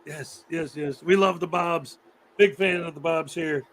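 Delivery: lightly voiced hype-man teacher; teacher impression. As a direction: pump up the fans, showman style. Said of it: "That was an impersonation of my high school algebra teacher".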